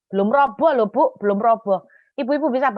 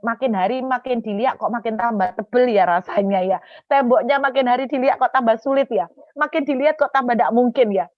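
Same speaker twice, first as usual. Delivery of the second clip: mounting dismay; 4 semitones higher, 6 dB louder than usual. Retold or imitated. Israelites stare at the thickening wall, dismay mounting loudly. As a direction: voice climbing louder and higher. Marchers grow daunted by wall.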